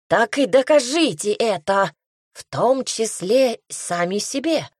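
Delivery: heart-rending cat cry. Acted. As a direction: wail it like a swaddled cat. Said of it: "душераздирающе крикнул кот". (кот в пелёнке душераздирающе кричит)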